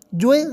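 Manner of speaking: جوئے with j and gliding ey; wrong joy reading. Shown as a demonstration. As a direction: glide from o to ey on جوئے. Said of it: "غلط".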